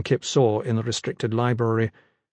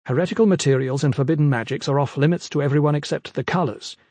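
put-on lecturing young scholar; 3 semitones higher than usual. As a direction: lay down the rules primly.

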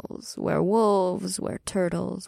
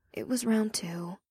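embarrassed whisper; 6 dB quieter than usual. Acted.

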